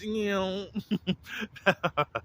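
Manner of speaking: high falling screech, then a laugh; imitated screeching noise. Recapping the screeching noise at an arrival, imitated screech. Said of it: "hear that screeching noise".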